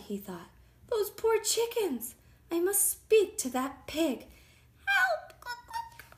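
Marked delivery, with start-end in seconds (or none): 0.9-4.3 higher, dismayed storybook wolf; concerned wolf. A narrator's reading. Wolf hears of the poor chickens, concerned. 4.9-6.0 very high-pitched hen cry for help; squawking chicken. A narrator's reading. Chickens call out to the wolf, squawking.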